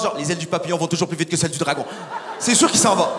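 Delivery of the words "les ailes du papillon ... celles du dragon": mock wise master. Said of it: "en métaphore chinoise".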